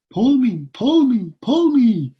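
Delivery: high, loud, insistent mock scream; imitated scream. Fire alarm tempting a schoolboy, imitated screaming. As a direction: shriek it as a repeated demand, hammed up. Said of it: "would always scream at me".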